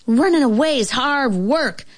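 put-on weary little girl's voice; tuckered out. A narrator's reading. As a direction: complain as if all tuckered out. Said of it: "all tuckered out".

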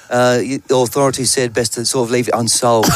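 put-on lightly done British accent, laughing at the end; a hint of a British rocker's accent; deadpan British musician accent, lightly voiced. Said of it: "That's a very good accent".

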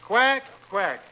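lightly voiced duck; two short, separate quacks. Reading a farm primer aloud, lightly imitating a duck. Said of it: "and the duck says".

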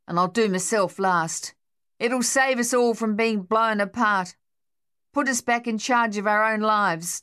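a man whose nerves have snapped; shell-shocked soldier. Acted. Harold's rant, nerves broken.

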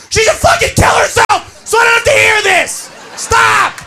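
acted fed-up yell; exasperated outburst. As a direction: snap at being pestered. Exasperated guy explodes.

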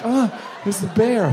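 hammed-up scream while running; imitating himself fleeing a bear; mock panic. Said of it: "I would run with my shitty ass like".

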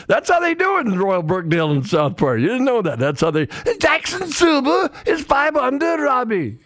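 put-on a clumsy Scottish-English accent; bad British accent. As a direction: commentate in a terrible British accent. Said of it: "It's terrible".

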